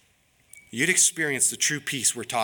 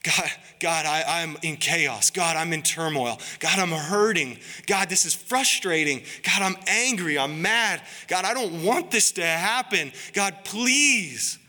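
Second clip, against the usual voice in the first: pleading prayer building to urgent; 3 semitones higher than usual. Pretend. A hurting believer crying out to God, building from plea to desperate. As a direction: pour out a troubled heart to God, rising.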